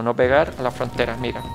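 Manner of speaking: ordinary talk, nothing marked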